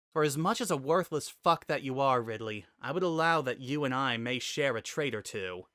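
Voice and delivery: a pinned fighter railing at her captor; rising to a heated, defiant peak; fierce warrior heroine. Acted. Samus blurting a concession.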